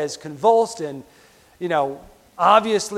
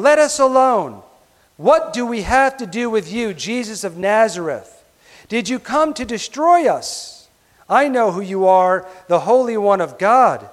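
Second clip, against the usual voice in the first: demon crying out; 2 semitones higher, 3 dB louder than usual. Acted. Preacher voicing the demon crying out at Jesus, loud. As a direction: cry it out, shaken and defiant. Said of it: "he cried out".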